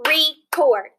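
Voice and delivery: record split into re and cord, clapped; clapping out syllables. Shown as a demonstration. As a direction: clap each syllable of record. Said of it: "Let's clap the syllables in that word".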